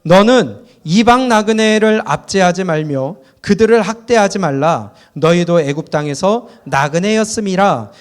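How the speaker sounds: loud group scripture reading. Real, not acted. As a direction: read the verse out together, firm and steady. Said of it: "다시 이십일 절부터 우리 읽어봅니다".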